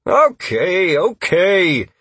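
high, loud giving-in; conceding defeat. A narrator's reading. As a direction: back down in protest. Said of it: "threw his hands up in defeat".

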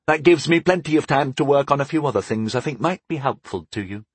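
a touch of mischief; lightly hint at a secret plan; understated playful slyness; mischievous. Acted. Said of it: "he said mischievously".

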